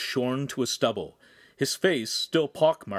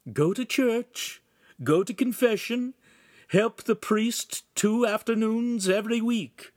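higher, drawn-out character voice; solemn instructions, slow and slightly raised; lightly voiced spirit instructing; 5 semitones higher than usual. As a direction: give orders like a visiting spirit.

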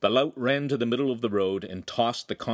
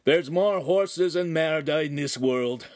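laughing shout; 7 semitones higher, 3 dB louder, slower than usual. Acted. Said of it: "the oaf laughed as he shouted".

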